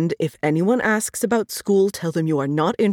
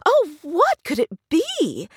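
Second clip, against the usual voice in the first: higher, louder storybook bear wondering; lightly voiced bear, puzzled; 10 semitones higher, 5 dB louder than usual.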